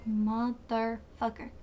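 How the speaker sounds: slow, stretched-out swear; drawn-out retold curse. Teller hears of the three hundred dollar fine, drawn-out curse. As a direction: draw out each part of the curse.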